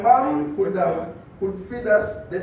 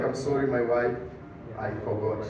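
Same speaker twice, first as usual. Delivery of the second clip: meek dad; 8 semitones lower, 4 dB quieter than usual. Retold or imitated. Dad apologizing meekly.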